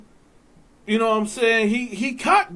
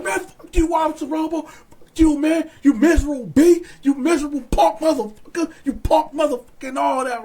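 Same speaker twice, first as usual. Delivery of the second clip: higher-pitched mock-angry insults; retold hollering; 4 semitones higher, faster than usual. Inmates at the bars cussing out Officer Robo, imitated holler. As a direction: heckle the officer in a raised voice. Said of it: "So we holler".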